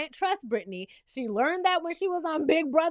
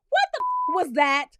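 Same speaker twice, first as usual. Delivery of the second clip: shocked disbelief; 2 semitones higher, 5 dB louder than usual. Real, not acted. Stunned at Danielle's choice.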